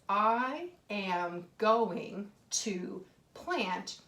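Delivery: very slow, word by word, rising on plant; slow dictation. Shown as a demonstration. Teacher reads her sentence slowly to the children. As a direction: read it out slowly for the class. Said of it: "I can read this".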